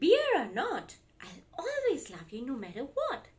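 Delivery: loving reassurance. Acted. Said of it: "said Large".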